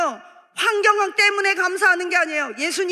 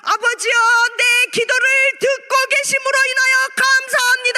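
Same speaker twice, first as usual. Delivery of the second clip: higher, ringing voice with long-held endings; acting out Jesus praying aloud; loud fervent prayer; 4 semitones higher than usual. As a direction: cry out to the Father in prayer. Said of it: "예수님은 큰 소리로".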